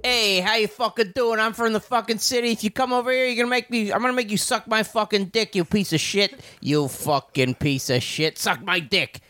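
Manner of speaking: lightly voiced brash city man; tough city guy. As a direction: play a mock-tough Italian city guy. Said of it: "city man".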